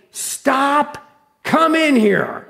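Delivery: high, drawn-out command; reenacted shouting voice. Preacher retelling a rescue by voice alone, high slow shout. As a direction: call it out high, stretching the last words. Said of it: "all from a voice saying".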